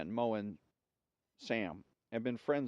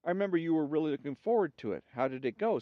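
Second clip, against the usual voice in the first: woman's voice; 5 semitones higher, 3 dB louder, faster than usual. Acted. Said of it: "said the first woman".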